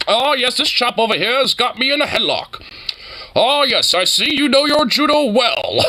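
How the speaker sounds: lightly imitated, unruffled gentleman; mock-courteous, as if the headlock were nothing; unbothered gentleman. Imitating a man held in a headlock, unbothered gentleman. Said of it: "He's not even affected by the headlock".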